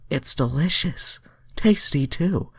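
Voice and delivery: high falsetto for the alien heroine; Starfire voice. Acted. Reader voicing Starfire, high falsetto. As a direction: squeak it up high. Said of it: "Starfire said".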